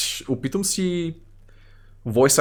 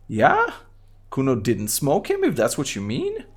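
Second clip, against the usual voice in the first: put-on a street kid answering the cop, slightly pitched up; Kuno voice; 2 semitones higher than usual. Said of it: "What is wrong with your high voice?".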